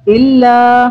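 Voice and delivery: इल्ला with the vowel held long; stretched madd. Shown as a demonstration. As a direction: draw out इल्ला for three alif counts. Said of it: "तीन अलिफ के बराबर खींचा". (इल्ला को तीन अलिफ तक खींचकर)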